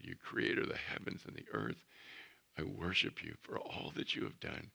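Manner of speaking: hushed, tender prayer voice. Shown as a demonstration. Preacher demonstrates an intimate prayer.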